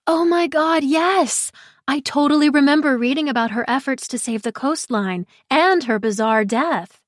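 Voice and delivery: bursting with recognition; excited Pri. Acted. Pri eager about the case.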